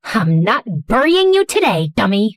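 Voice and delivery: mild irritated snap; snapped. Acted. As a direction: snap at a foolish partner, understated. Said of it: "slapped my thigh twice and snapped".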